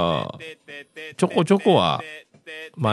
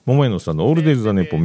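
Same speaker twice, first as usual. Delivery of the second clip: title call; 5 dB louder, much faster than usual. Acted. Host repeats the show title.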